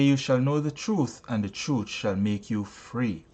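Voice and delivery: measured preaching cadence; sermon reading. Acted. Preacher opening his sermon to the congregation, solemn. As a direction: intone the scripture line with weight. Preacher reads scripture text.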